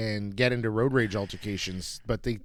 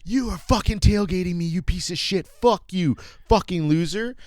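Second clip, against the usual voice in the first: mock furious woman; 5 semitones higher than usual. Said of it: "she goes".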